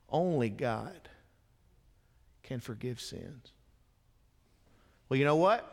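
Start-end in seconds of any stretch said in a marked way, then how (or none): 0.1-3.5 solemn quote. Retold or imitated. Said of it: "he said".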